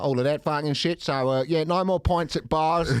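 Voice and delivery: put-on Aussie-accented spoof of a Chinese leader; comic Australian accent for an official address; mock Australian accent. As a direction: play a president in broad Australian. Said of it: "go for Australian".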